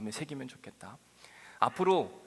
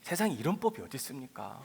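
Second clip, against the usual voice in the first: arguing with God; 6 semitones higher, 6 dB louder than usual. Acted. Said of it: "하나님께 따지는 거예요".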